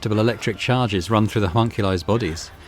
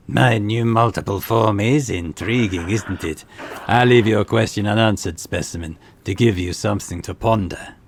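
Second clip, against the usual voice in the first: arrogant homunculus voice; slower than usual. Acted. Tavantius teases, voice from everywhere.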